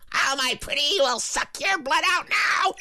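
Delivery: high, slow cackling witch threat. Retold or imitated. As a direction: croon it like a wicked witch over her victims. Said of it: "like a coven of witches".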